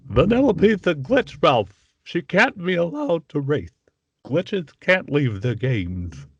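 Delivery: high, slow, fussy cartoon king; King Candy impression. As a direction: put on the high nasal-free candy king voice, slowly. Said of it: "he does the King Candy on that".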